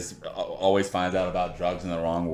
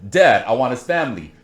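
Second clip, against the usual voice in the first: raised menacing rant; mock Capone rage; 4 semitones higher, 4 dB louder than usual. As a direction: spit out the threats with relish. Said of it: "That was from Al Pacino".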